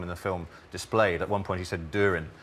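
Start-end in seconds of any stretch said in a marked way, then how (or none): 1.9-2.3 "Durin" said with no y sound, "doorin"; yod dropping. Shown as a demonstration. Linguist quoting an Old Kent speaker, "Durin" yod-dropped. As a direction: say "Durin" as "doo-rin". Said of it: "which is something that we call yod dropping".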